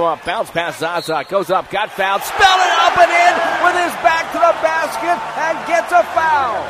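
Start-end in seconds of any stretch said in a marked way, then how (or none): 2.2-6.6 high, sustained play-by-play shout; thrilled high-pitched sports call; excited basket call. Real, not acted. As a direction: belt it out over the arena. Live call of basket and foul.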